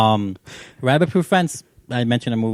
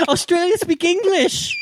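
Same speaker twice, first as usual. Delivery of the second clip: high, strained, drawn-out shout; incredulous shouting; slower than usual. Real, not acted. Podcaster correcting his cohost about Australia, incredulous shouting. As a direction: shout it slowly in laughing disbelief.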